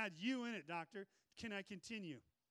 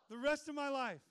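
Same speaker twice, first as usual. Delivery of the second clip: higher and louder, a firm closing vow; loud declaration; 5 semitones higher, 8 dB louder than usual. Real, not acted. Preacher finishing his vow to the church, loud. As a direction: seal it like an oath.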